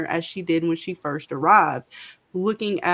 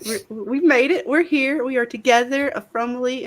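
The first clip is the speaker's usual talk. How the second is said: excited; 4 semitones higher than usual. Acted. Triumphant arrival banter.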